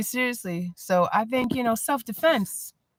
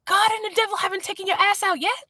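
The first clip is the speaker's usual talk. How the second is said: mocking sass; 9 semitones higher than usual. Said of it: "I was like".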